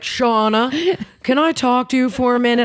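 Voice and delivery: high-pitched affected manager; Jim, affected. Retold or imitated. Manager pulling a waitress aside, high affected voice. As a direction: imitate a fussy manager calling a waitress over. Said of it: "he talked like this, really affected".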